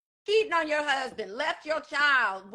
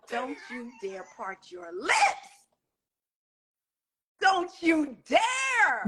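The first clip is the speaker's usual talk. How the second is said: warning; slower than usual. Retold or imitated. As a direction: dare it to her face, slowly. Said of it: "I was like".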